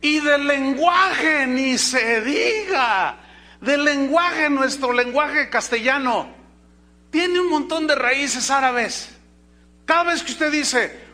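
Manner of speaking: loud, high-pitched pulpit delivery; full-force preaching. Real, not acted. Preacher telling the church about Spanish's Arabic roots, full-force preaching. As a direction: raise the voice and drive each phrase.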